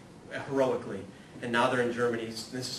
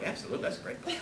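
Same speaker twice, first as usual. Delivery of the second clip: high, breezy fake assurance; overselling a book, pitched high; mock confidence; 12 semitones higher, 3 dB louder, faster than usual. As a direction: bluff about a book you never read. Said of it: "I say it with confidence".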